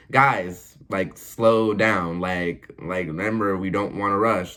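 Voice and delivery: slow, drawn-out mock patience; petty nagging. Choir member correcting the others' rushing, slow petty nagging. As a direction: drag it out like a condescending reminder. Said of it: "it's, like, petty shit".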